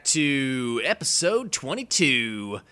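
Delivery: loud, drawn-out opening holler; show intro. Acted. YouTuber opens his episode for the viewers, big show intro. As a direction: belt out the greeting, stretching the words.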